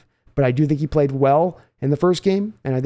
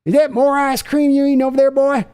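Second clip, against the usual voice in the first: scolding father; 8 semitones higher than usual. Acted. Father scolding his son for eating ice cream, high angry tirade. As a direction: berate the boy from a higher pitch.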